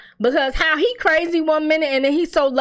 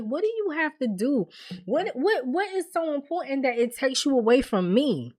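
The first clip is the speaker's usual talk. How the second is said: put-on pleading girlfriend; 3 semitones higher, 5 dB quieter than usual. Girlfriend asking why he must leave, pleading. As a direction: plead gently, stumbling on "what".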